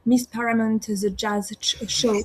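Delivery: English title in a French accent. Real, not acted. Singer naming her jazz show, in French-accented English. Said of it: "Désolée pour mon accent anglais".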